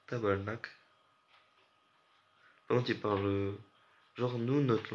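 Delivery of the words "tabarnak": put-on "Tabarnak" said quickly in a Québécois accent; light mock Québécois accent, "Tabarnak" at normal speed; quick Québécois swear. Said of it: "Je sais pas faire l'accent québécois de ouf".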